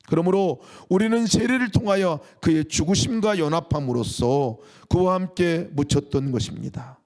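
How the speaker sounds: 힘주어 선포하듯 성경 읽기; 설교자가 말씀을 또렷이 힘 있게 낭독. Acted. Reads scripture aloud. (회중에게 힘차게 읽어 주는 성경 구절)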